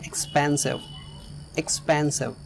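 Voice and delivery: "एक्सपेंसिव" with the weight on "पें"; stress on E. Shown as a demonstration. Teacher models "एक्सपेंसिव", stress on "पें". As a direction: lean on "pen" in "एक्सपेंसिव". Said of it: "ई पर stress है".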